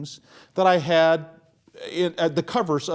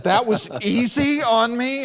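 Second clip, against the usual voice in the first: incredulous; 6 semitones higher, 6 dB louder than usual. Retold or imitated. Disbelief at troupe's remark.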